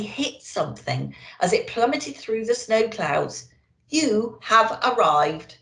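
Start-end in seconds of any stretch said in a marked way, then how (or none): 3.9-5.6 slow, even machine announcement; slow robotic navigation voice; sat-nav voice. Acted. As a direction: speak like a car sat-nav, word by word. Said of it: "said the sat-nav unhelpfully".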